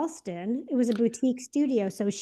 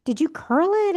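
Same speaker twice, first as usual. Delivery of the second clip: excited gushing; 5 semitones higher than usual. Retold or imitated. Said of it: "are like".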